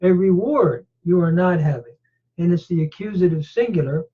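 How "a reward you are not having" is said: reward stressed first and falling; emphatic reward. Shown as a demonstration. Teacher showing the word order, reward first. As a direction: lean on reward, put it up front. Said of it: "emphatic by position here".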